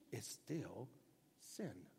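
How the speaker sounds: soft, low, final; preacher answers the excuse, soft and final; quiet firm verdict. Acted. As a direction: drop it quietly and firmly. Quiet flat rebuttal.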